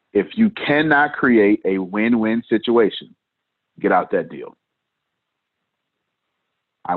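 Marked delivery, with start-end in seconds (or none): 0.1-4.6 deepened voice for drama; forcing a deep voice. Shown as a demonstration. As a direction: drop the voice low, slow and weighty. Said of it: "Let me deepen my voice for dramatic effect".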